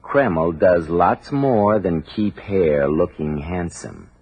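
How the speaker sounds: announcer repeating the point, slow and deliberate; slow emphatic repeat. Shown as a demonstration. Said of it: "Let me repeat".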